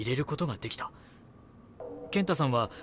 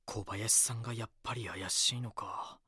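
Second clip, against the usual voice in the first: musing to himself; 5 dB quieter than usual. Acted.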